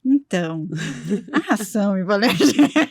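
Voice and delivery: breathe, then restate it with contained exasperation; patient deep-breath restraint. Retold or imitated. Vet explaining hypoallergenic food after a breath, restrained. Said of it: "Aí no final você respira".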